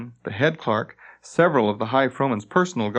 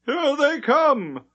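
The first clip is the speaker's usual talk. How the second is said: high, slow, thrilled cry; excited chatter; much slower than usual. Acted. Head clerk seeing the ship arrive, high and excited. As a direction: announce it breathless with excitement. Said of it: "chattered excitedly".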